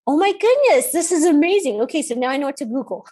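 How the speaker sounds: high, loud burst of wonder; giddy, re-enacted astonishment; amazed excitement. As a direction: gush over a sudden revelation. Doctor's amazed reaction, acted.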